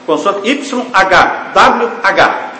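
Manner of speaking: Y H W H spelled slowly letter by letter. Shown as a demonstration. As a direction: lay out each letter Y H W H. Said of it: "Essas quatro consoantes". (Y H W H soletrado letra por letra)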